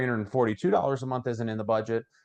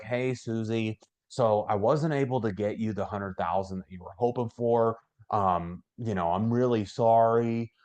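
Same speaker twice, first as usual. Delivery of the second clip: apologetic. Shown as a demonstration. Agent apologizing to Susie for less coverage, apologetic. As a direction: sound let down and apologetic. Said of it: "don't be apologetic".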